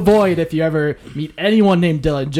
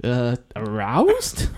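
deadpan, slow and quiet; 4 semitones lower, 6 dB quieter, much slower than usual. Real, not acted. Deadpan punchline after long pause.

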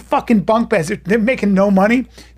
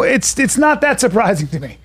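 usual speaking voice

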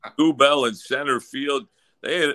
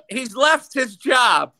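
ordinary delivery

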